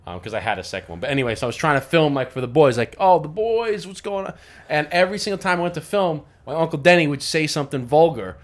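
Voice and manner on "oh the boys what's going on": high, loud hype for the camera; hyped greeting. Retold or imitated. Filming for the boys at the party, hyped greeting. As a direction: imitate a hyped-up video greeting. Hyping friends while filming.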